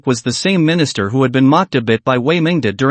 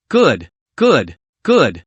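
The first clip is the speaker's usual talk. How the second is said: overjoyed; 2 semitones lower, much slower than usual. Acted. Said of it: "Wang Yun was overjoyed".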